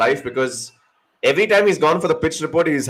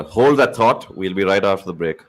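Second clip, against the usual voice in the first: low, smooth anchor sign-off; news anchor voice; 5 semitones lower than usual. Shown as a demonstration. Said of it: "Talking like a news anchor".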